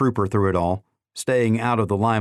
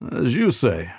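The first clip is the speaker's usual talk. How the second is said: snorting colonel. Acted. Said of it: "he replied with a snort".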